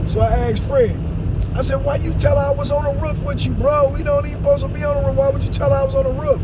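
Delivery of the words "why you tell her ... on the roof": rapid indignant. Retold or imitated. Confronting Fred, worked up.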